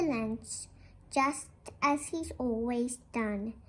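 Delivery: gentle, measured read-aloud voice; storybook reading. Acted. Teacher reading a picture book to the class, gentle storytelling.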